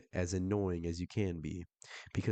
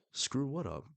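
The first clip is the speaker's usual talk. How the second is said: higher, puzzled question; caught off guard; 7 semitones higher than usual. Acted. Widow answers the man's odd text, caught off guard. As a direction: act thrown by what was just said. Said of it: "Getting caught off guard".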